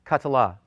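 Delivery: "ka-tla" again, ka and tla kept apart; syllable by syllable. Shown as a demonstration. Teacher confirms "ka-tla" for the class. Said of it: "Three syllables".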